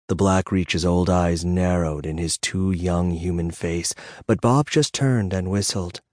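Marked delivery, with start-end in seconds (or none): none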